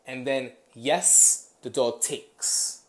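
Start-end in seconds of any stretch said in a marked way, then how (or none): 0.7-1.5 punchy, louder "Yes" to the dog; marker word. Shown as a demonstration. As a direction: mark it with a loud, crisp yes. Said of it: "I will say".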